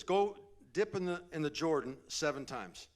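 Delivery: high, loud barked instruction; loud command. Retold or imitated. Preacher voicing the servant's order to Naaman, loudly. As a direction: call the order out sharply.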